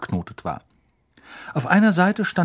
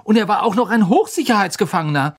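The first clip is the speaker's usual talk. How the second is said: higher, louder, faster agitation; boy upset over the escape; agitated; 9 semitones higher, 6 dB louder, faster than usual. A narrator's reading. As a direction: get worked up about it. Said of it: "sagte Ron aufgebracht".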